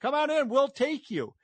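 high, sing-song mock invitation; sarcastic high welcoming call; mock welcome. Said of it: "you were saying".

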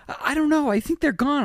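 high, hesitant mock Shane; imitating Shane. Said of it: "Shane's like".

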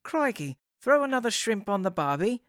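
teasing Aussie impression; mock Australian accent. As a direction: tease with a cartoon Australian accent. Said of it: "with an Australian accent".

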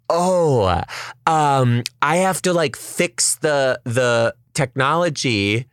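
dramatically fake smiling. Photo worker stalls the couple, dramatically fake. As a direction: imitate a bad actor stalling through a big smile. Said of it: "smiling so dramatically".

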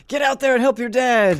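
a hint of a nagging mother; mom's order. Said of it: "my mom would be like".

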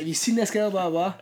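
high, loud pleading question; hammed-up frantic searcher; frantic Jeffrey. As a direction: mimic the desperate boyfriend. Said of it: "He's like".

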